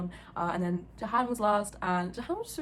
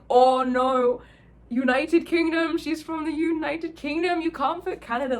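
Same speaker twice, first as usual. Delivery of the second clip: loud, drawn-out, higher-pitched telling-off; mock scolding; 7 semitones higher, 7 dB louder, slower than usual. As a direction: imitate a friend's horrified correction. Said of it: "he was basically scolding Arthur".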